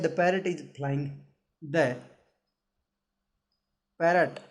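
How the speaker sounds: very slow, drawn-out reading of the sentence. Shown as a demonstration. Teacher reading the example slowly to the class. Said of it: "तो आगे दिया है".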